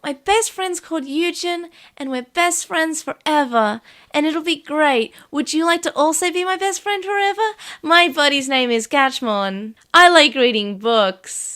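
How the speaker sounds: slow, put-on English accent; Haru. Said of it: "gonna make him English".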